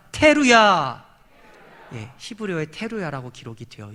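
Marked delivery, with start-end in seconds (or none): 0.1-1.0 loud drawn-out call; demonstrated shout. Shown as a demonstration. Preacher has the congregation repeat the word, loud shout. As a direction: shout the word for them to echo. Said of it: "큰 소리에 해당하는 히브리어".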